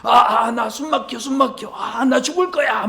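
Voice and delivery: high, loud mock-gasping child whine; child's tantrum. Child begging parent for a toy, hammed-up tantrum. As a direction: wail like a kid pretending to suffocate. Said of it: "장난감 사달라고 막 떼를 쓰면서".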